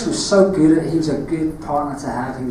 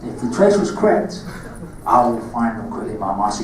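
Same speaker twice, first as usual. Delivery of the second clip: put-on Cockney accent, lower at the end; menacing Cockney Darth Maul, lower; 5 semitones lower than usual. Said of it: "Darth Maul lines in your Cockney accent".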